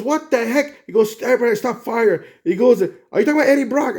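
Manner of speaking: a hint of sudden disbelief; retold surprise. Spider-Man hearing Venom mention Eddie Brock, mild shock.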